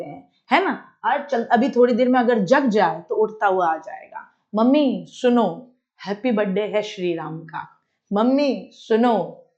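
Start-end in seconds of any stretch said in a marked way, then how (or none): 4.5-7.7 a hint of a child seeking mum's attention; lightly voiced child. Child announcing a birthday to mother, lightly imitated child. 8.1-9.5 mild imitation of a child calling mum; lightly voiced child. Child wanting mother to listen, lightly imitated child.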